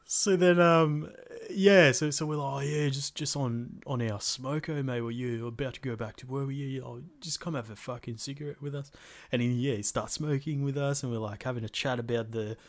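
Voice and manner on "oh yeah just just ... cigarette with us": put-on Bogan accent. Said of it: "pretending to be these characters".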